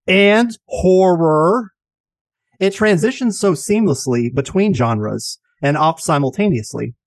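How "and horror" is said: spooky horror voice. Acted. Spooky drawn-out genre list.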